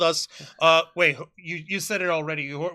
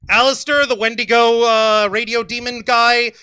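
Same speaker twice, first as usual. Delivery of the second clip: loud, eager fan gush; excited; 2 semitones higher, 8 dB louder than usual. Real, not acted. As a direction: gush about a favorite character. Excited outburst about character.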